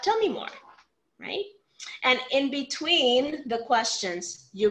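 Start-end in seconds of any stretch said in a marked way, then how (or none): 0.0-0.5 much higher, inviting "Tell me more"; eager prompt. Shown as a demonstration. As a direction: lift "Tell me more" up high to draw them out. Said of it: "until you get to that spot".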